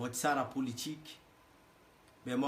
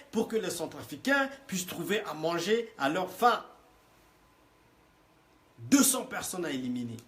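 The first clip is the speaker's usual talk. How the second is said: emphatic ranting; 4 semitones higher, 3 dB louder than usual. Real, not acted. Repeating the threat, louder.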